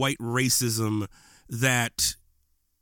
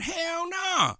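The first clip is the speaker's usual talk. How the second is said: emphatic shout. Real, not acted. Emphatic rejection mid rant.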